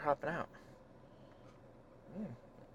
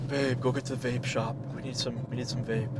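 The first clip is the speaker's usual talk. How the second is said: breathless stoner voice; winded, gasping between words; out of breath; 6 dB quieter than usual. Acted. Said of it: "Why am I talking like I'm out of breath?".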